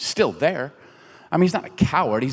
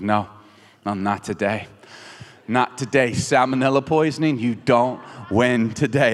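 defiant; 4 semitones lower than usual. Retold or imitated. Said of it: "I was like".

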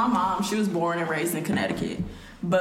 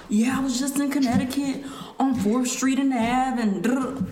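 higher imitation of a Northern accent; mom's up-north accent; 5 semitones higher than usual. Daughter imitating mom after a trip north, mock Northern accent. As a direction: put on mom's Connecticut talk. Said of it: "she be like".

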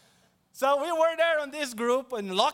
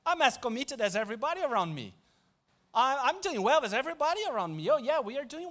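smug complacency; 3 semitones higher, faster than usual. Pretend. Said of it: "if all that we can say is".

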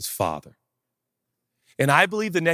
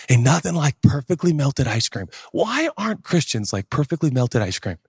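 ordinary talk

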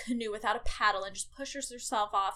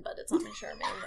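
squeaky high; faster than usual. Real, not acted. Squeaky laughing admission.

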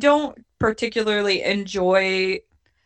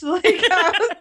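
laugh-crying through the words, pitched up; laughing hard; 9 semitones higher than usual. Real, not acted. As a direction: voice cracking with real laughter. Laughing at a show's odd plot.

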